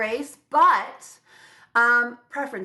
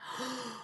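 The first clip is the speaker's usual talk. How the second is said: gasp; 4 semitones higher, 13 dB quieter than usual. Real, not acted. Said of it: "I just got the chills".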